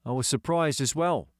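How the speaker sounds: hint of a kid's voice; lightly voiced schoolboy George; lightly voiced boy.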